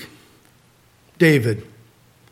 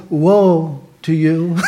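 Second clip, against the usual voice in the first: slow woe; much slower than usual. Shown as a demonstration. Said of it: "try reading that in a calm voice".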